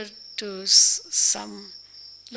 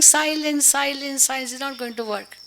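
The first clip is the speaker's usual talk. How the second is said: raised, higher teacher's call for silence; shouting silence; 4 semitones higher than usual. Retold or imitated. Teacher to noisy children, a mock raised call. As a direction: bark silence at a noisy class. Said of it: "So by just saying".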